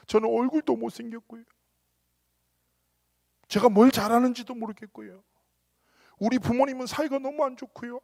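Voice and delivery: a teen girl on the verge of tears, voiced high; imitating tearful girl. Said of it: "라고 막 울먹거려요". (울먹이는 여학생 흉내, 높은 목소리)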